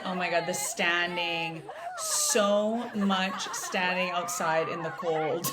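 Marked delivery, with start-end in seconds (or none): 2.0-5.5 slow, laughing through the words. Real, not acted. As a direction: chuckle while complaining about the cold. Laughing at the cold standing tour.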